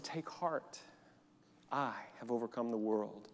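soft, quiet scripture words; hushed quoting Jesus. Acted. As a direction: say it gently, as Jesus' promise. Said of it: "But Jesus said".

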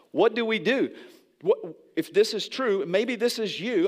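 urgent appeal. Real, not acted.

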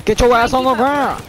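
mock cop bark; tough cop voice. Gamer barking at a game enemy in a cop voice. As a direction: play a gruff cop barking orders. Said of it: "I don't know why I like to do that voice".

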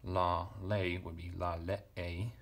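syllables "la le e" spelled out slowly, each one separate; uncontracted Greek form. Shown as a demonstration. Teacher spells out the uncontracted verb for students, slow and careful. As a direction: sound out "la le e" one syllable at a time. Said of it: "in this uncontracted form".

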